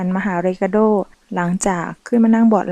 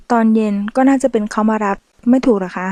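dragging the last word. Acted. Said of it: "เอมิเลียลากเสียงคำสุดท้าย".

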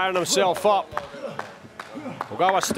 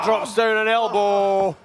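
loud, raised play-by-play call; excited shout; 4 semitones higher, 4 dB louder than usual. Real, not acted. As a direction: call it out like a big hit. Commentator calls big move excitedly.

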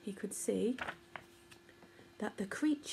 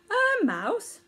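surprised; 10 semitones higher, 5 dB louder than usual. Acted. Millipede startled by question.

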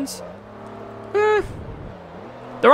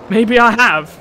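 a hint of a hillbilly American accent; mock American hillbilly voice, lightly done; 3 semitones higher, 5 dB louder, slower than usual. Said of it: "American accent".

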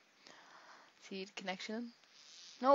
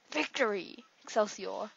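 louder, hammed-up victory cry; mock triumph; 3 dB louder than usual. Gamer celebrating his win, hammed-up triumph. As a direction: proclaim it grandly.

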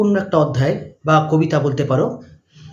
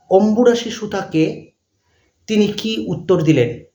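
dictating; 3 semitones higher, slower than usual. Shown as a demonstration. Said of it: "প্রশ্ন লিখবে".

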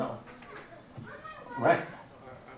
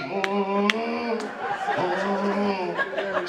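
humming. Retold or imitated. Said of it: "kicked off the heels just so she can do that move".

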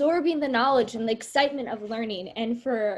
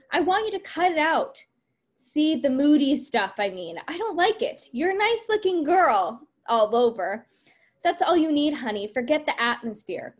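lively read-aloud of the script's dialogue, voices lightly acted; reading a play aloud; 2 semitones higher than usual. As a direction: read the scene to the class, giving the lines some life. Teacher reads play dialogue aloud.

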